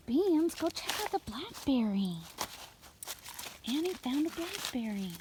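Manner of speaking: high sing-song call to animals; coaxing the goats up high. Real, not acted. Calling goats to the berry.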